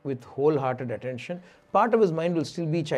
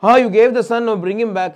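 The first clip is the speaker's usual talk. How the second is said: insistent demand; 5 semitones higher, 9 dB louder than usual. Retold or imitated. King demands son back from rishi.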